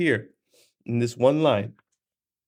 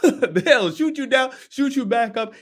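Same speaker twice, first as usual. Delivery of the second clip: laughing emphasis; 10 semitones higher than usual. Shown as a demonstration. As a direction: relish it with a chuckle.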